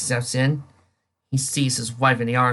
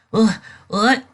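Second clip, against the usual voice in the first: sharp, high, louder calls of what; startled loud what; startled shout; 9 semitones higher, 7 dB louder than usual. Acted. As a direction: jolt awake and shout it. Dick startled, repeating louder.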